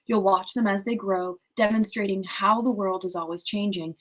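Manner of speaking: measured read-aloud voice; story narration. A narrator's reading. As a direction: read the novel aloud, evenly paced. Reads the novel aloud.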